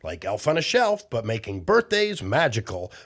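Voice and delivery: fast, chirpy sponsor announcement; quick upbeat commercial read. Acted. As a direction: rattle off the sponsor message like a kids' show ad.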